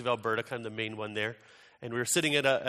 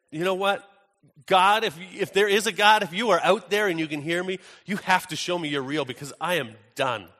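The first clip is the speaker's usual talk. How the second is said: loud, raised plea, easing down at the end; retold desperate begging; 5 semitones higher, 6 dB louder than usual. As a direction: act out a man at the end of his rope. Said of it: "in tears, begging the universe for something".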